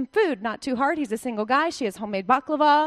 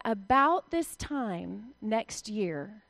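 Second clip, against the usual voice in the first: solemn promise; 3 semitones lower, slower than usual. Acted. Prophet pronounces promise.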